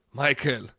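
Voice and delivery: put-on a quick, half-hearted Italian accent on the name; bad Italian accent. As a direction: start an Italian accent, then drop it. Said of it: "I'm not gonna do an Italian accent 'cause that already sounded horrible".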